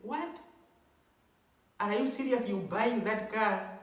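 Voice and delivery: high, startled "What?" then imitated disbelief; retold shocked surprise. Girlfriend stunned he buys her the car, mock shocked. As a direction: play her gasping disbelief at the price. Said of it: "she was shocked".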